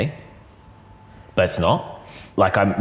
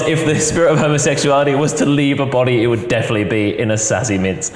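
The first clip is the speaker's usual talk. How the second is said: 1 sassy mince voice; 4 semitones higher than usual. Pretend. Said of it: "to mince out of me".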